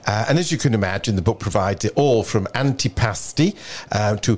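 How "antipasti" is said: Italian dish name in a put-on Italian accent; attempted Italian pronunciation. Shown as a demonstration. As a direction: say it like an amateur Italian. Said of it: "in an Italian accent".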